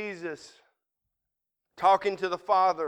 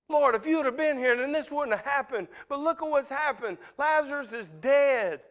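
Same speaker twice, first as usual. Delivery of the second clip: higher-pitched, mildly upset reproach; a little upset; 5 semitones higher than usual. Retold or imitated. Grieving sisters reproach Jesus over Lazarus's death, a little upset. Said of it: "they was a little bit upset with Jesus".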